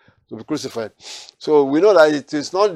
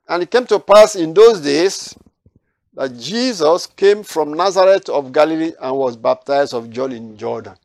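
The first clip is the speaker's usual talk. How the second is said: raised, solemn reading of the verse; scripture reading; 4 dB louder than usual. Acted. Preacher reading the verse to his study group, solemn and raised. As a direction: proclaim the prophecy from the Bible.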